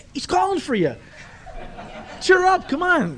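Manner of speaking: the crowd urging the beggar to go, high and loud; excited crowd. Retold or imitated. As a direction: hurry him along with excitement. Crowd now eager for miracle.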